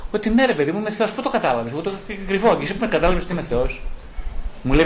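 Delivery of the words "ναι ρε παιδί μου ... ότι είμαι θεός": mocking. Therapist mockingly agreeing with a patient that he is God. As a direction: tease her as if truly revealing you're a god. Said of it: "της λέω κοροϊδευτικά".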